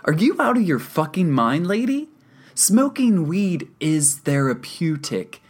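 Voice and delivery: high, loud indignant tirade; incredulous, heated protest; outraged rant. A narrator's reading. Angry patient argues with counselor.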